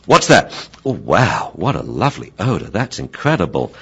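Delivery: a dog lightly voiced, pleased with a lovely smell; mock delighted dog discovering the odor. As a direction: sound won over by the liver smell. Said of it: "it then goes like this".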